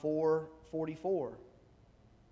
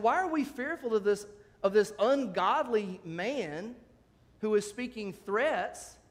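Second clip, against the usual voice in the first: higher, louder rhetorical question; indignant challenge; 4 semitones higher, 4 dB louder than usual. Acted. David challenges Israel's fear of an ungodly man, indignant. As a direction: start high, then weigh each word slowly.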